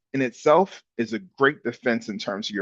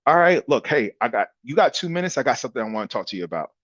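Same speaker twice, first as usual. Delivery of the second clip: casual cold-call opener, quickening at the end; natural, unsalesy; faster than usual. Shown as a demonstration. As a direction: talk like yourself, just having a conversation. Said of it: "you sound natural, you sound like you".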